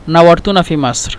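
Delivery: "নাওয়ারতুনা ফি মাসর" in Arabic, stress on "নাওয়ারতুনা"; teacher demonstrating a polite Arabic greeting; Arabic greeting phrase. Shown as a demonstration. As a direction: present the Arabic courtesy phrase clearly. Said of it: "নাওয়ারতুনা মানে".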